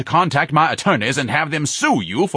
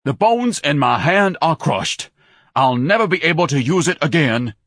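loud, raised-pitch wail of injury; thundering complaint; 8 semitones higher, 5 dB louder than usual. A narrator's reading. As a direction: lament it with theatrical outrage. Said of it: "Ignatius thundered".

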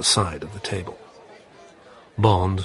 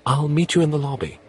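Vesper voice; 8 semitones higher, much faster than usual. Acted. Vesper answers Bond.

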